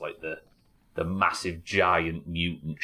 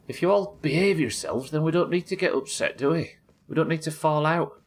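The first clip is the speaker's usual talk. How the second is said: mock stern parent; 9 semitones higher than usual. Scolding chat in mock parental voice.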